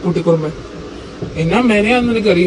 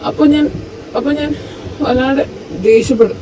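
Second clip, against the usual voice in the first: hurt outburst. Acted. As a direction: pour out the hurt, almost shouting. Hurt husband pours out his anger.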